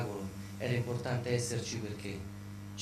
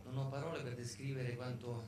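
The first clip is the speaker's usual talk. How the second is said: breathless after the show; panting between phrases; out of breath; 4 dB quieter than usual. Real, not acted. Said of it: "Scusate il fiatone".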